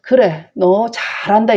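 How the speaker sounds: a father's sarcastic "well done"; sarcastic scolding. Retold or imitated. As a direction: scold by pretending to praise. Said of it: "이런 반어적인 표현을 해요".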